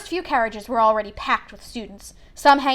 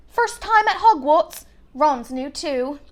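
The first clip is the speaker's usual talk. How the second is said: friendly mother; 4 semitones higher, slower than usual. A narrator's reading. Mother chats kindly to Harry.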